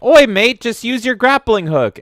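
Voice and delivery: loud, high mock Australian bloke; Australian accent. Game character mocked by streamer, hammed-up Australian accent. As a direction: shout it like a hammy Aussie stranger. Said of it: "a random Australian man comes and is like".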